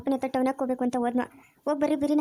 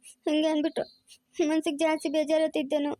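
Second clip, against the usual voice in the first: tearful, voice catching on a sob; hurt wife weeping over her mother-in-law; crying. Acted. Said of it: "ಅಳ್ಬೇಡ ಸುಮ್ನೆ ಶೋಭಿತಾ".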